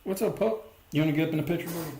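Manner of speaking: high, sing-song voice for the pup; high pet voice calling the dog into frame; doggy talk. Real, not acted. Talking to his dog.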